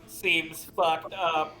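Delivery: drawn-out flat disapproval; deadpan Donald. Retold or imitated. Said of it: "Donald just being like".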